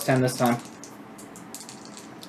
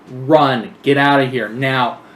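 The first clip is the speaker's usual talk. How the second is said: urgent raised-voice warning, held back from a full scream; mock scream; 5 dB louder, slower than usual. Player's character warning Tiny to flee, half-screamed. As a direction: call out an order to flee. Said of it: "I scream at Tiny".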